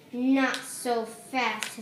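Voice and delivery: slow, unpleasant warning; a hint of a stern teacher, slow. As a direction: stop them coldly and slowly. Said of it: "it's an unpleasant voice".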